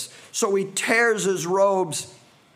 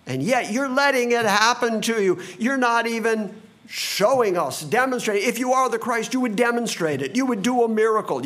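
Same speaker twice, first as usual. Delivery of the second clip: higher, quicker taunting tone; mocking jeer; 5 semitones higher than usual. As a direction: mockers jeering at Jesus while beating him, fast and higher. Voicing the mockers.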